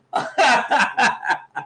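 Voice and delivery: high-pitched burst of laughter. Real, not acted. Laughing after hype.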